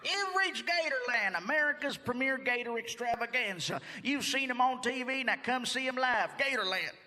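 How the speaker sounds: lightly hammed-up recorded park announcer; theme park phone greeting.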